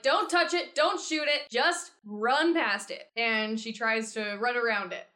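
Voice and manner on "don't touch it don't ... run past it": higher, emphatic in-character orders; urgent instructions. Acted. Bard directs party past charmed ghost, urgent instructions. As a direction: drive home each order to your party. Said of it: "and then she's like".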